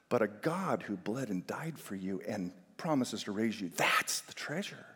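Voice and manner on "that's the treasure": whispered, slow and intimate; slow reverent whisper; hushed whisper. Acted. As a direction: breathe it out as a secret. Whispered climax of point.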